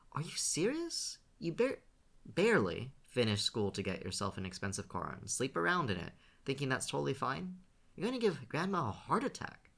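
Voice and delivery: high, outraged scolding; indignant. A narrator's reading. Scene scolds Shane about his car and girls, outraged. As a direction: let him have it, you can't believe him.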